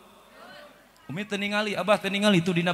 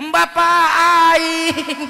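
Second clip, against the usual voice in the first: high, loud cheeky retort; cheeky child; 12 semitones higher, 8 dB louder, much slower than usual. Retold or imitated. The child teasing his father, a cheeky high retort. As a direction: answer back like a sassy kid.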